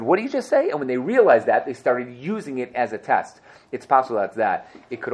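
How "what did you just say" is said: sharp suspicion. Retold or imitated. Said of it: "He said".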